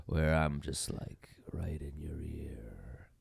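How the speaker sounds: close-mic whisper into the ear; breathy whisper right up on the mic; right in your ear. Shown as a demonstration. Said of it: "my voice is ever gonna sound like this".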